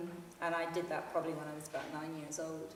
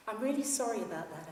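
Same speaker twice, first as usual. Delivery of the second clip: holding in giggles; 3 semitones higher than usual. Acted. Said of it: "trying to contain my giggles".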